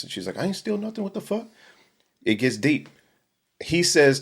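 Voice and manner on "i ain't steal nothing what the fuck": higher, indignant protest, a touch mock; retelling the girl's outraged denial, much higher. Accused worker protests to manager, mock outraged and high. Accused girl denies stealing.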